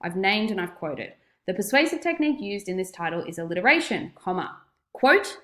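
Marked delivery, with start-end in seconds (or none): 1.5-5.4 dictating. Shown as a demonstration. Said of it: "it might sound something like this".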